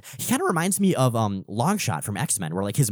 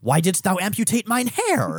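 put-on raised, old-English hero voice; archaic Thor voice; 9 semitones higher, 3 dB louder than usual. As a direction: declare it like a lofty Norse god.

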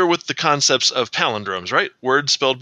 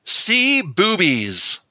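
very slow, drawn-out words; slow demo; 6 semitones higher, much slower than usual. Shown as a demonstration. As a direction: say it slowly and clearly for recording. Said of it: "I will demonstrate thusly".

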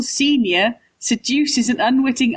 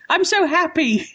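mock bad actor; 6 semitones higher than usual. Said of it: "who say the emotion that they're doing".

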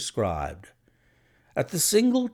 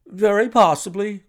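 ghastly forced smile; 9 semitones higher, 4 dB louder than usual. A narrator's reading. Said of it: "with a ghastly smile".

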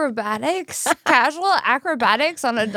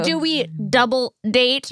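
mocking; slower than usual. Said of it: "Like you heard about it yesterday?".

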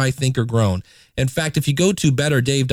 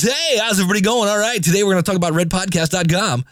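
high, fast, hyped radio DJ delivery; cheesy radio host voice cranked to the max; obnoxious DJ voice; 6 semitones higher, faster than usual. Shown as a demonstration. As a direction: pump it up like an over-the-top morning DJ. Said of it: "I take it to obnoxious D J voice".

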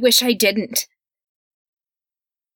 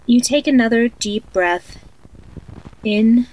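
sleep story narrator. Acted. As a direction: lull a child to sleep, eerily calm. Creepy tape of guided sleep meditation.

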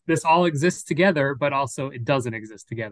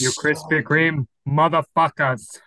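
slow, louder movie line impression; 4 dB louder, slower than usual. Shown as a demonstration. Doing the movie line impression for friends, slow. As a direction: drag out the line like the actor. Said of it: "best impression of the Krispy Kreme line".

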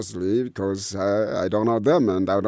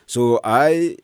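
normal talking voice

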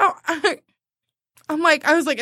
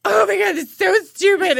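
exasperated venting; 5 semitones higher, 4 dB louder than usual. Retold or imitated. Venting to mom, retold.

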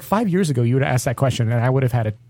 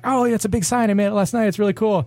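higher, eager and proud; proud excitement; 8 semitones higher than usual. Retold or imitated. A bartender proudly showing his homemade sign to the police officer, eager. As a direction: show off the sign like a kid.

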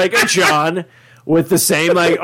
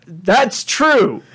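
Roiland impression; 3 semitones higher than usual. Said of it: "He literally says".

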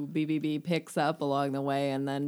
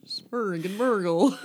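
slow, lightly mock-Swedish delivery; a hint of sing-song Muppet gibberish; Swedish Chef; slower than usual. Joking to co-host about silly dragon names, light Swedish Chef impression. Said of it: "like the Swedish chef from the Muppets".

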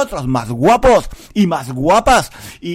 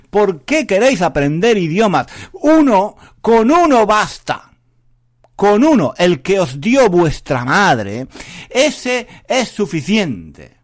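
mock rant; 4 semitones higher, 5 dB louder than usual. Mock rant against learning languages.

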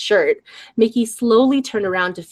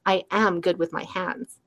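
softer, suggestive murmur; 7 dB quieter than usual. Acted. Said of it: "suggestively murmuring".

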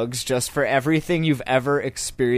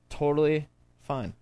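unconvincing inflection; 6 dB quieter than usual. Real, not acted. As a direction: say it's okay with doubt in the tone. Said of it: "I had that inflection in my tone".

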